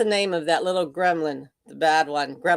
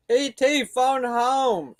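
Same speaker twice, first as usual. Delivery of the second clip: E.T. quote; 6 semitones higher, slower than usual. Retold or imitated. Quoting E.T.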